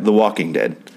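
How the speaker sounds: "Walking" leaned on in the title; stress on Walking. Shown as a demonstration. Reviewer telling two show titles apart, stress on "Walking". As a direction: put the emphasis on "Walking". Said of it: "if I put the emphasis on walking".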